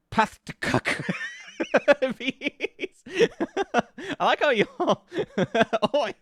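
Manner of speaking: high, helpless giggling through words; laughing. Real, not acted. Streamer reacting to chat's suggestions, laughing hard. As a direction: crack up while reading.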